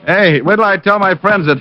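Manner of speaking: high, eager, starstruck gush; gushing fan. Pretend. Detective buttering up the boxer, gushing starstruck fan. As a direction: lay the flattery on thick like an awed fan.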